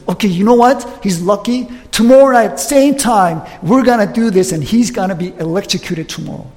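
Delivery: an annoyed official announcing a delay; frustrated guard cut off from his execution. Retold or imitated. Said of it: "is frustrated and goes".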